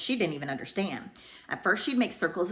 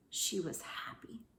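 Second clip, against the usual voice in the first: slow, hushed, almost breathless whisper; whispered joy; 7 dB quieter, slower than usual. A narrator's reading. Narrator describing happy tears, slow whisper. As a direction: let the joy catch in a whisper.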